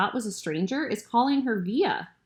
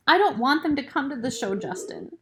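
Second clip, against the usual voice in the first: higher-pitched impatient interruption; 6 semitones higher than usual. A narrator's reading. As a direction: cut in with raised pitch, impatiently. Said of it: "she interrupts me impatiently".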